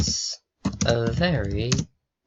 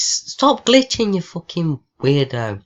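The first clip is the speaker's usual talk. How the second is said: yelling; 4 semitones higher, 5 dB louder than usual. Real, not acted. Gamer yelling at glitching app, high loud shout. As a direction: scream it at the frozen screen.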